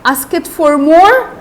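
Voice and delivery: slow echoed question, rising at the end; drawn-out, indignant query; incredulous repeat. Acted. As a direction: repeat it back in disbelief. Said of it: "Mister Bumble repeated".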